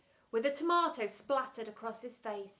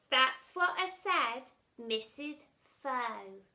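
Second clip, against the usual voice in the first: smirking; 2 semitones higher, 5 dB louder, slower than usual. Acted.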